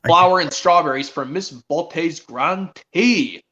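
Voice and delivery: slow mock scolding; drawn-out, theatrical telling-off; Sir Topham Hatt. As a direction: stretch the words in a put-on scold. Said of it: "he's a little harsh".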